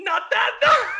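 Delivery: high, loud mock outburst as Jumba; mock shout. Friend retells Jumba's comeback with a loud mock shout. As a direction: yelp it as a cartoon alien. Jumba voiced in retold scene.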